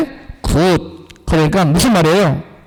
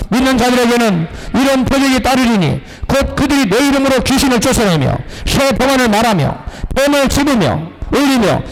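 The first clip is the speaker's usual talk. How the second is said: higher-pitched, measured Bible reading; scripture recitation; 4 semitones higher than usual. Acted. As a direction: read the verse out formally in a raised pitch. Reads scripture aloud.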